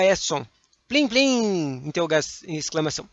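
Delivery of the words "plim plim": "Plim, plim!" chimed lightly, less high; a gentler second chime of "Plim, plim!"; softer plim. Shown as a demonstration. Teacher repeating the onomatopoeia, gentler chime. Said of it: "Plim é onomatopeia".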